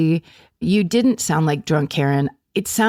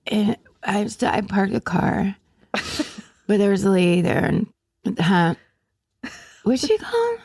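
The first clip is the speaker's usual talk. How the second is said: put-on drunk rambling voice. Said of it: "imagine drunk Karen".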